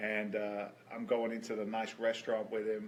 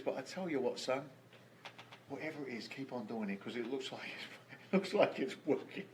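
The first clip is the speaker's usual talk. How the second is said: choked up; 5 dB quieter than usual. Real, not acted. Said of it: "He says".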